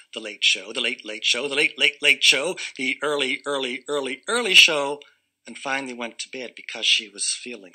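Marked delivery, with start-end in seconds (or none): 0.1-5.0 building list. A narrator's reading. Listing ever later shows, building.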